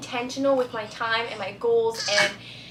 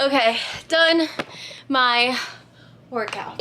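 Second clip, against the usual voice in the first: out of breath; slower than usual. Real, not acted. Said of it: "I'm out of breath".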